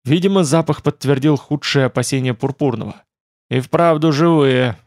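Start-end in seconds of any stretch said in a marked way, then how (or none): 3.5-4.8 slow amazed realization. Acted. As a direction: draw it out in wonder. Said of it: "изумлённо констатировал он".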